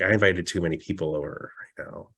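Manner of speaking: quick, soft grumble as the demon; mildly irritated demon. Retold or imitated. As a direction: rattle off a quiet mock complaint. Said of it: "he gets very irritated".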